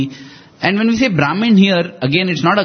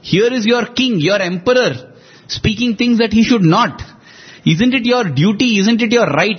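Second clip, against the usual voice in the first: raised, urgent pleading with the court; 3 semitones higher than usual. Retold or imitated. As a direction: urge the silent ministers to speak up. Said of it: "he actually pleads with them".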